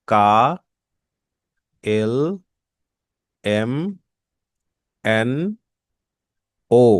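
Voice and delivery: কা, এল, এম, এন, ও as German letters, each set apart; name each German letter slowly. Shown as a demonstration. Teacher reciting German letters, each clearly. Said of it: "উচ্চারণ কিরকম হয়".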